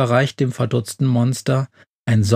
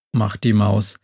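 ordinary delivery, nothing marked

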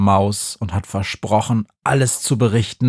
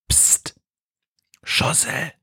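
scharf gezischtes, tonloses Flüstern; zischend; 6 semitones higher, 6 dB quieter, slower than usual. A narrator's reading. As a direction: leise zischend zur Aufmerksamkeit mahnen. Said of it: "zischt die Hexe". (gezischter Flüsterruf)

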